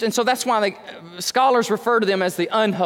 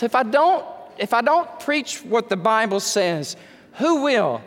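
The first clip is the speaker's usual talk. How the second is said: higher-pitched, insistent pulpit questioning; impassioned preaching challenge; 4 semitones higher than usual. Real, not acted. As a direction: press each question on the congregation.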